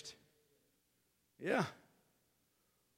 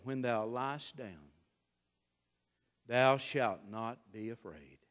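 a calm bedside verse, slow and hushed; gentle scripture reading; 5 semitones lower, slower than usual. Real, not acted.

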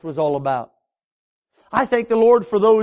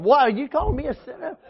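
mock upset; 5 semitones higher, faster than usual. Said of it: "I get all upset".

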